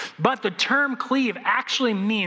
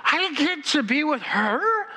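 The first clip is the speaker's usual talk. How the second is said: much higher, breathless wonder; awestruck groom; 11 semitones higher than usual. Retold or imitated. Groom watching his bride come down the aisle, awestruck and much higher. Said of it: "That's the thought of every groom".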